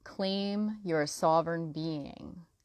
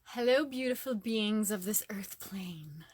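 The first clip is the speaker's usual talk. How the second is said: whispered greeting; 3 semitones higher than usual. Real, not acted. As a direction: whisper hello like sharing a secret. Opening greeting to live viewers.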